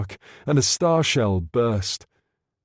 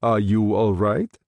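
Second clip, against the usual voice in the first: demanding; 3 semitones lower than usual. A narrator's reading. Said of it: "he demanded".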